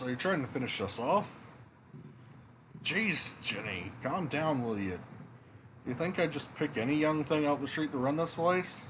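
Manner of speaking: game dialogue in a hint of Scottish; light Scottish accent. Inn staff argue over who runs it, lightly put-on Scottish accent. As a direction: read the characters with a light Scottish lilt. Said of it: "doing this Scottish accent".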